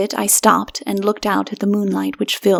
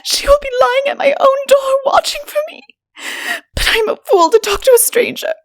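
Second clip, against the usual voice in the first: much higher, crying voice through tears; tearful crying; 3 dB louder than usual. A narrator's reading. Woman afraid of the leopardess, crying. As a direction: weep while pleading. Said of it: "Here she burst into tears".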